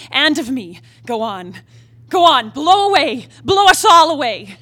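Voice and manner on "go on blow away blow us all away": defiant shout. Acted. Kathy defies the storm, shouting.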